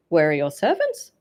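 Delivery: a touch of outrage; mild cry. A narrator's reading. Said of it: "cried she".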